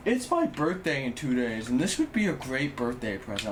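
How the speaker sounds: mocking quote of someone angling for presents; mocking imitation. Streamer imitating viewers who announce their birthdays, mockingly. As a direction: mimic gift-fishers with jumps up in pitch. Mimicking people fishing for birthday gifts.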